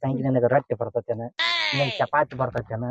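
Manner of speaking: low, understated questioning as the father; father's questioning. Acted. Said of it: "ಅವ ಏನಾರ question ಕೇಳ್ತಾನೇನ".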